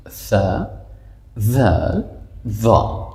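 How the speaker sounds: "ثا، ذال، ظا" each from the tongue tip; tongue-tip articulation. Shown as a demonstration. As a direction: demonstrate "ثا، ذال، ظا" as separate th-type sounds. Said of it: "نوک زبان". («ثا، ذال، ظا» با نوک زبان)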